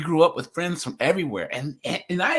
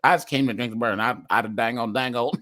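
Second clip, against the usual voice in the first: Boomhauer impression; 5 semitones lower, faster than usual.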